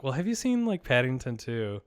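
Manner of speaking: coy suggestion with a high-pitched start. Retold or imitated. Daughter coyly suggesting a film to her dad, coy. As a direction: lightly mimic a coy daughter. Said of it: "she's being kinda, like, coy".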